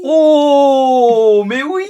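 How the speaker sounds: high, loud burst of delight; delighted cry. Acted. Player thrilled by the Cro-Magnon plan, excited cry.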